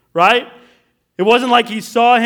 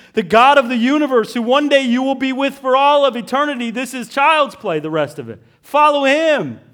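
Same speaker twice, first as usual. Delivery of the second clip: higher, louder pleading appeal; fervent preaching; 5 semitones higher, 4 dB louder than usual. Acted. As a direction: urge them with full conviction.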